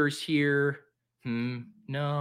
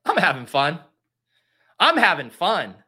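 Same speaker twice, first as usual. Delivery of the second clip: forced shout; 3 semitones higher, 6 dB louder than usual. Pretend. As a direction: yell it like a cracking mantra. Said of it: "You're witnessing a mental breakdown".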